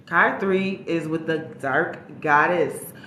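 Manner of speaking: loud, drawn-out announcement; slow, showy unveiling; dramatic card reveal. Real, not acted. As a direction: stretch the names out with a big high flourish.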